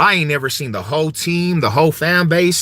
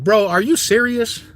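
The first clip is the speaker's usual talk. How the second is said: disbelieving, higher, slower on the repeat; can't believe what he's seeing; incredulous; 7 semitones higher, slower than usual. Retold or imitated. Mocking disbelief at crying fans, higher and drawn out. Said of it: "I'm over here like".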